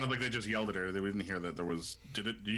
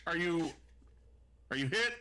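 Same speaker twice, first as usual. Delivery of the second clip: worried; 7 semitones higher than usual. Acted. Worried ally calls over comms.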